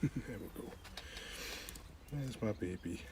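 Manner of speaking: soft cooing. Real, not acted. Soft talk to pet.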